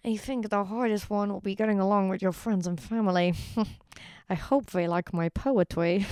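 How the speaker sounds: put-on voice, drawing out the poetry line; lightly mock his earnest delivery; imitating a man, slightly affected; mock suitor voice. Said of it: "And he was like".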